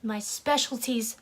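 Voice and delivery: loud, pausing before a shouted last word; theatrical outburst. Shown as a demonstration. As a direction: hold back, then blast the final word. Overacted take on the monologue.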